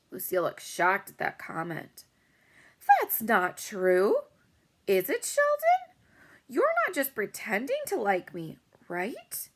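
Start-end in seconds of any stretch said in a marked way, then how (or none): 2.9-9.5 put-on much higher, anxious girl's voice; worried girl. A narrator's reading. Girl asking her friend if he is pretending, anxious and high. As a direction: plead for reassurance, pitch climbing.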